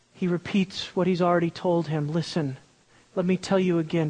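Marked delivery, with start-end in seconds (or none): 2.1-4.1 gentle. Retold or imitated. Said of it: "this is gentleness at its best".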